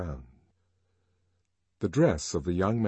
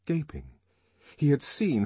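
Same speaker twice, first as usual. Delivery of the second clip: ordinary delivery, nothing marked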